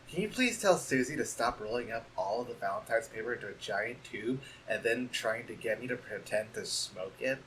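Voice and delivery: timid hushed valentine; soft shy letter. Acted. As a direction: read it gently like a bashful friend.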